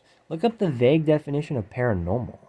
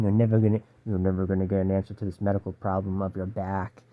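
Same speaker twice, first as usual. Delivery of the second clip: demon voice; 4 semitones lower than usual. Retold or imitated. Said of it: "it's more like demon voice saying".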